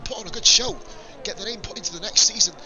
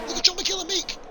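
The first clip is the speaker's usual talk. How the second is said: excited; 11 semitones higher than usual. Real, not acted. Repeat, excited commentary.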